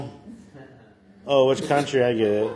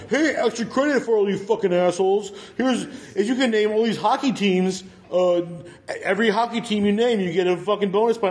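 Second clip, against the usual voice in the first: higher-pitched, hyped-up teacher imitation; mock teacher announcement; 5 semitones higher than usual. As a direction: announce it like an overeager gym teacher. Voicing teachers announcing extra credit.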